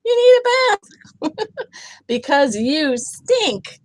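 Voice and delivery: high, loud, slow yell. A narrator's reading. Bear telling smelly friend he stinks, high loud yell. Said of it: "She's yelling, like".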